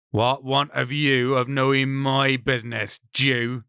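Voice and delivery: understated angry brigand; a touch of threat in the question; mild anger. Acted. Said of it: "His words are angry".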